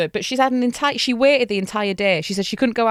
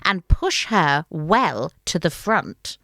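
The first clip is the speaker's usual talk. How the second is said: wicked witch hissing her plan, pitched up at the start; scheming witch; slower than usual. Acted. Witch plots with her daughter, menacing. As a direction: play the plotting witch, menacing. Witch plotting murder in story.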